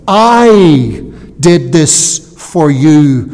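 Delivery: "I" drawn out long and loud, slow line; stress on I. Acted. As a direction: lean hard and long on "I". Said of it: "The Hebrew emphasis, that word "I".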